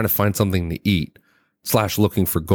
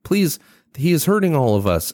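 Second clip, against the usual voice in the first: stilted distress call; 10 semitones higher than usual. Acted. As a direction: read it like a stiff, overly literal game line. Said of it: "where it's very literal".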